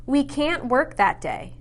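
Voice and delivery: "can't" with a long, stressed A; "can't" stressed and held long. Shown as a demonstration. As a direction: draw out the A in "can't". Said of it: "I said can't".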